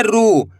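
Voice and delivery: रू with the ऊ held long; drawn-out ru. Shown as a demonstration. Teacher showing pupils the long ऊ. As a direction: pull out the ऊ in रू. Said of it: "खींच खींच के पढ़ना है आपको".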